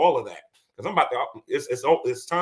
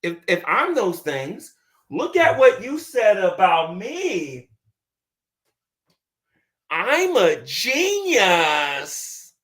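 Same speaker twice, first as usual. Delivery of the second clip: mock gotcha; 3 semitones higher, 3 dB louder, much slower than usual. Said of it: "make a video and say".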